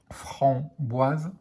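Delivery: "framboise" as fram-boise, with a gap; split into syllables. Shown as a demonstration. Teacher showing pupils the syllable heard, word split in two. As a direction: pause between the syllables of "framboise". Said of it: "on entend la syllabe".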